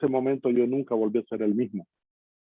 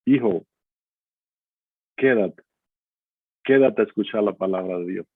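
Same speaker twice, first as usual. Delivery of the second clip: lower-pitched, gently pausing mother's request; tender plea; 4 semitones lower than usual. Retold or imitated. Mother stopping her son at the door, tender plea. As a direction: imitate a tender, unhurried appeal. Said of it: "me lo dijo con una ternura".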